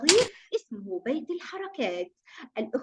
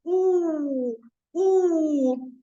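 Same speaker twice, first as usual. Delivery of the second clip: tag; 3 dB louder, much slower than usual. Acted. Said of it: "تضمهم وتحضنهم،".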